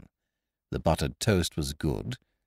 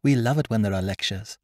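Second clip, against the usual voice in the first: put-on higher, louder, slowing girl's voice; mischievous schoolgirl; 6 semitones higher, 4 dB louder than usual. A narrator's reading. Girl relishing the staring game, higher and louder. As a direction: savour the mischief. Child voice.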